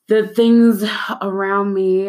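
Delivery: hushed, slow confiding whisper. Real, not acted. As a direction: lean in and breathe the words. Confiding aside to listeners.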